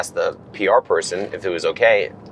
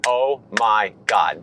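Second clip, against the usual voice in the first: stunned disbelief; much slower than usual. Retold or imitated. Told they'd meet Tom.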